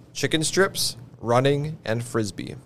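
flat list read without expression; deadpan each item evenly; monotone voice. Shown as a demonstration. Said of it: "I'm gonna say it in a monotone voice".

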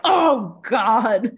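imitating waking up to self-hate; mock groan of dismay. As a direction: groan at yourself on waking late.

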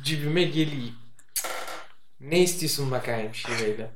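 playful Karadeniz dialect on request; Black Sea regional speech, put on; Black Sea accent. Shown as a demonstration. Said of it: "bize böyle bir şiveli çok az konuşsan".

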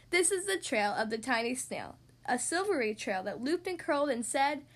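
measured, lilting read of a rhyming tale; children's story narration. A narrator's reading. Podcast host reading a snail and whale tale to children, storytelling. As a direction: read the rhyme clearly for young listeners. Reads a picture book to children.

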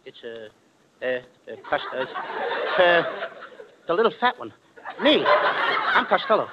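low, slow frightened stammering; scared stammer. Acted. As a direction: stutter it out in terror. Terrified stammer before gangster.

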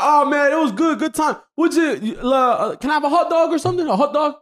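high-pitched mock New York accent; put-on New York accent. Shown as a demonstration. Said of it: "you do the accent sometimes".

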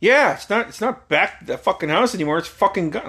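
dad at dinner fuming over his stolen punt; angry dad. Retold or imitated. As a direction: vent like a dad who's been robbed.

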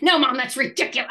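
retold teen snapping back, a bit fast; explosive denial. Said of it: "even got more explosive".

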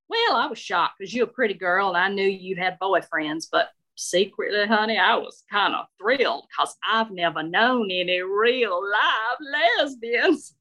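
sweetly nosy Southern belle; Shirley approving Marie's shoes, Southern lady voice. Acted.

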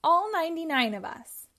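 eager puppy. Acted. Puppy continues calling.

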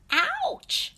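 very high storybook ouch; pained yelp. A narrator's reading. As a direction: yelp as if your foot was stepped on. Happy's foot stepped on.

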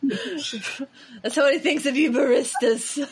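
talking through a laugh; giggling while speaking. Real, not acted.

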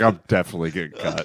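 laughing panic. Retold or imitated. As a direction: rush it through a laugh. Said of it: "I was like".

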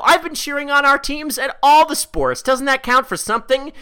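put-on high, whiny protesting sorority girl. Sorority girl protesting to her computer screen, whiny voice. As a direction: whine it like a kid begging for credit. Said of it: "you say in a whiny little bitch voice".

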